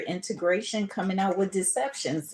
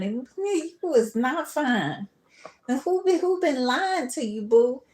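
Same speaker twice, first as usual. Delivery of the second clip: worked up; 8 semitones higher, 5 dB louder than usual. Real, not acted. Mocking someone's vanity.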